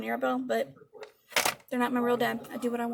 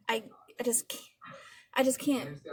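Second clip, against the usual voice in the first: exasperated whisper. Real, not acted. Overwhelmed by the glitter's quality.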